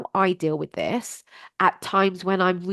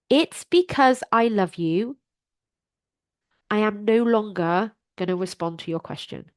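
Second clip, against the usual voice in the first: calm tone. Shown as a demonstration. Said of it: "you can still say it with a very calm tone".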